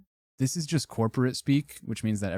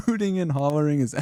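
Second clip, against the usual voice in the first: laughing; 5 semitones higher, 4 dB louder, faster than usual. Real, not acted. Laughing while reading phrase.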